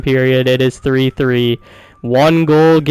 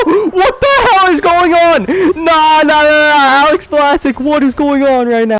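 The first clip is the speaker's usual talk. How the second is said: excited disbelief; 13 semitones higher than usual. Real, not acted. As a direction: yell it like you can't believe your luck. Shocked by lucky goals.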